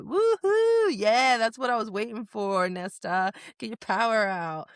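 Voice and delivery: villain cheering her on to use her power; gleeful whoop. Retold or imitated. King egging Nesta on, gleeful whoop.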